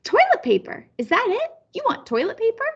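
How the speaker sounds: put-on high, bright guess of a child; child eagerly guesses the word for grandma, excited.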